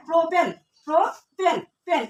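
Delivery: প্রোপেন said slowly, split into "pro" and "pen"; pronunciation demo. Shown as a demonstration. Teacher showing how the alkane name ends in "en", slow pronunciation demo. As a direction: sound out প্রোপেন slowly, then single out the ending পেন. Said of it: "এটা হবে কি উচ্চারণটা পুরোটা".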